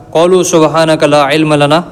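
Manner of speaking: slow, measured Arabic recitation of the verse; Quran recitation. Acted. Teacher reciting the angels' verse to students, slow chanted recitation. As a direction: intone it slowly like tilawat.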